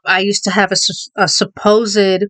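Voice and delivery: brief real stumble on "supposed"; slight stutter. Real, not acted. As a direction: catch on the first syllable of "supposed", then restart. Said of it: "so you just saw just now".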